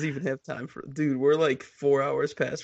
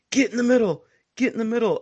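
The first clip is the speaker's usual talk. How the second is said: directing call; 7 semitones higher, faster than usual. Retold or imitated. Retold call directing the champion.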